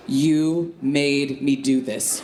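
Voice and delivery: slow, deliberate accusation; ominous accusation. Acted. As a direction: spell out the blame slowly and ominously. Menacing email subject line read out.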